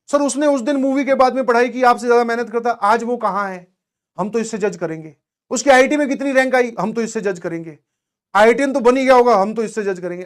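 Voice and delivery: high, loud mock protest, dropping on each refrain; mimicking insistent students. Teacher mimics students judging a topper by rank, mock insistent. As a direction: imitate students stubbornly arguing back.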